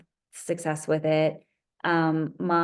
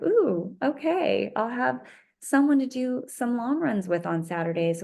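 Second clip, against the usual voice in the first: excited squeal; 5 semitones higher than usual. Retold or imitated. Excited about joining running club.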